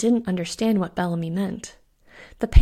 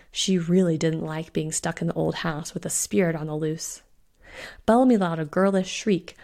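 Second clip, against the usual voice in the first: plain reading voice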